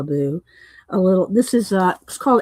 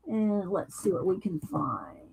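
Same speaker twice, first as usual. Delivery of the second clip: whispered to herself; 10 dB quieter than usual. Real, not acted. Crafter muttering to herself.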